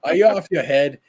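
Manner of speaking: lightly done British bloke voice, mock-gruff; mock British man. Voicing comic character for friends, light mock British man. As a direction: play the grumpy British man, hammed up. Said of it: "I use a man's voice".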